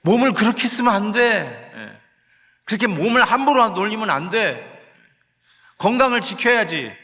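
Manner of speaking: the Spirit sighing and urging over a careless body; pleading lament. Acted. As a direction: plead like a worried parent scolding gently. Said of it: "성령께서 시기하시고 젤러스하시고 탄식하신다는".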